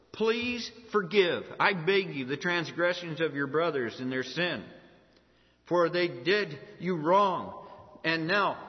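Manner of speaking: loud, emphatic reading of a plea; begging. Acted. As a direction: plead forcefully for forgiveness. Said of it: "They're begging".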